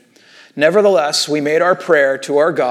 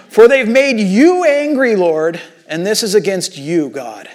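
fervent prayer; 4 semitones higher, 3 dB louder than usual. Retold or imitated. Reading the fierce prayer with force.

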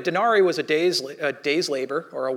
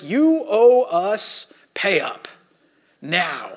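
stern IRS demand; much slower than usual. Retold or imitated. Mock IRS demand letter.

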